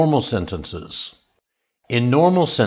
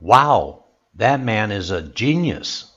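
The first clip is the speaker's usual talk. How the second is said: surprised exclamation. Shown as a demonstration. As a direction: exclaim in surprise, lifting "genius". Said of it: "show surprise, your voice goes up".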